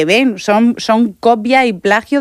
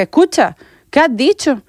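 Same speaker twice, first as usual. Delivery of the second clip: put-on higher-pitched challenge to kids; re-enacted confrontation, pitched up; confronting retold challenge; 5 semitones higher than usual. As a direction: stop them short with a pointed question. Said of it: "los paré y le dije".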